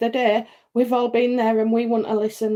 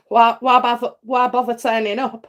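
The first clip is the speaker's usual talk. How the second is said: exasperated quote; 4 dB louder than usual. Retold or imitated. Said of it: "it's almost as if I say".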